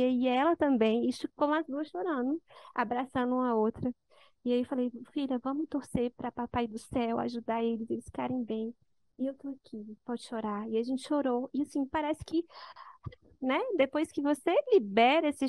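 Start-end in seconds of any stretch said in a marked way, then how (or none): 5.1-10.7 much softer, tender and tearful; tearful comfort. Retold or imitated. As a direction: hush it, comforting a crying daughter while crying too. Mother comforting daughter while both cry.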